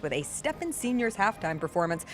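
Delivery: energetic announcer ad voice; punchy radio spot delivery; ad read. Acted. Ad read aloud.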